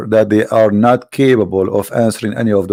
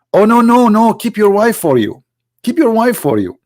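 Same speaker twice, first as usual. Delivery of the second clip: higher, hammed-up hasty refusal; mock protest; 8 semitones higher than usual. Mimicking the prophet telling the son to keep his wife, higher. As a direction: wave it off in a fake fret.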